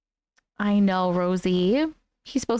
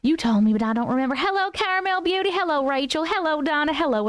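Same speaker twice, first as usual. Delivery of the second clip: put-on Southern accent. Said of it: "we're done with accents for the moment".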